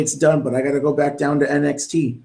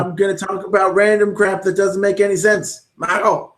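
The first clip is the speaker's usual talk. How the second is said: lightly hammed-up announcer, higher; mocking sound-bite commentator; 5 semitones higher than usual. Fan mocking the commentator's nonsense, higher mock announcer voice. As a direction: parody the rambling announcer. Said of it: "speaking in sound bites like the rest".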